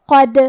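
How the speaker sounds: قد said with the final دال bounced, an echoing release; qalqala on the dal. Shown as a demonstration. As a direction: end قد with a light rebounding دال. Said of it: "یہ حرف کو ہلاتے ہوئے یہ کلمہ کو پڑھیں گے". (قد میں دال کو قلقلہ سے ہلا کر پڑھیں)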